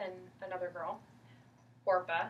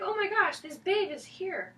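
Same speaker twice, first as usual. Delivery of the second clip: higher, louder, hammed-up gushing; super excited; 10 semitones higher, 6 dB louder than usual. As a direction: play him thrilled to find her there. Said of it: "he's super excited".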